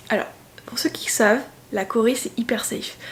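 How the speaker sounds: conspiratorial whisper to the viewers; whispered aside. Real, not acted. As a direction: let them in on a secret. Confides a tip to viewers. (chuchoté en confidence)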